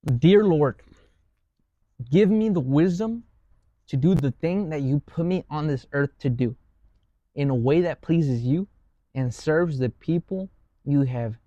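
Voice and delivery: slow, reverent prayer. Shown as a demonstration. Reading a found prayer to close the talk, slow and reverent. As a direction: pray it out slowly and earnestly.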